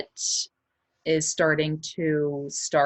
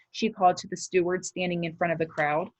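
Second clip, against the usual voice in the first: lively chapter-book reading to a class; story read aloud; 3 semitones higher than usual. Acted. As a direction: read it to the kids with suspense. Reads the novel aloud.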